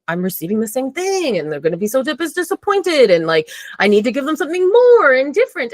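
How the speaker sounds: high, rushed mock worry; anxious fretting. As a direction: voice your own worried thoughts, climbing in pitch. Acting out anxious people-pleasing thoughts.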